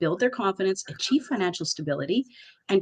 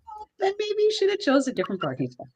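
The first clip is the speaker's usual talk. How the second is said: laughing; 12 semitones higher than usual. Retold or imitated. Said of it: "And I'm like".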